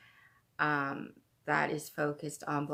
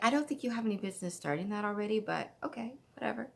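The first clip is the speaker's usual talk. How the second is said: mock dismissive; 5 semitones higher, much faster than usual. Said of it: "And I'm like".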